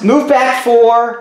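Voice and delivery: slowly spelled-out move. Shown as a demonstration. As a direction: draw each word out. Acting out a cheating player's moves.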